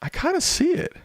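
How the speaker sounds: squeaky falsetto, far above own voice; extreme falsetto. Pretend. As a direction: squeal it like a cartoon.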